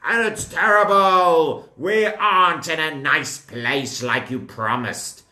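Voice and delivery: loud, whiny complaint that slows as it goes; complaining. Acted. Datan and Aviram grumble at Moshe, loud and whiny. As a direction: grumble loudly at the leader.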